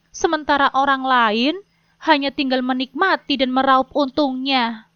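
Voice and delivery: a wife pressing her husband about money, mildly; wife confronting husband. Acted. (istri yang sedikit tegas menegur suami)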